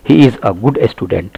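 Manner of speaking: "a good" said "uh good"; slow model sentence, "a" reduced to uh; a as short "uh". Shown as a demonstration. Teacher giving the correct reading, short uh pronunciation. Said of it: "हमको अ बोलना है".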